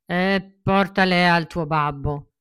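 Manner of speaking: slow, loud but kindly giant; kinder voice. Acted. Mangiafuoco giving coins to Pinocchio, gently booming. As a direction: soften the big voice into kindness. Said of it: "disse con una voce più gentile".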